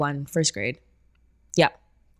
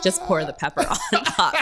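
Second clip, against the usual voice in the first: laughing; 3 semitones higher than usual. Real, not acted. Joking about pepper sauce.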